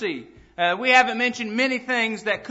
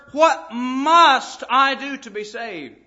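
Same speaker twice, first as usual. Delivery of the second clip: slow, urgent question; 4 dB louder, slower than usual. Acted. Preacher drawing question out.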